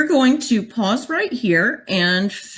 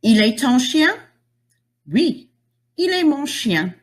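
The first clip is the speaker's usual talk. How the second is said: put-on kids' dialogue; 5 semitones higher than usual. Shown as a demonstration. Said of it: "would sound like this".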